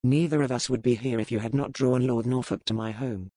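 level and unhurried; calm. Acted. Pirate captain coolly blaming the lady, calm. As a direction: say it coolly, no heat. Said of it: "he said calmly".

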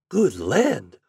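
ordinary delivery, nothing marked

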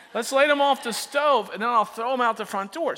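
hammed-up excited teenager; eager teen idea. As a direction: sell it like a genius idea. Teen self pitching a bad idea.

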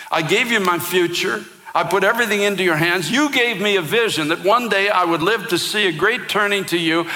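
reliving anger at God, restrained volume; retold angry outburst at God. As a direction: relive the bitter complaint to God, pitch climbing. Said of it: "I literally screamed at God".

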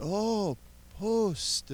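"Post" said high and bright, with a surprised rise; the light dawning on "Post"; surprised realization. Retold or imitated. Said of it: "And he said".

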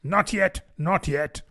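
a touch of a flustered rabbit; hasty interruption. Acted. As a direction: hurry to stop the king. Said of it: "the rabbit hastily interrupted".

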